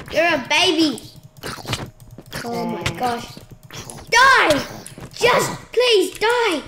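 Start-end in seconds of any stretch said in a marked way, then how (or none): 4.1-6.6 pleading yell. Real, not acted. Fighting the baby zombie.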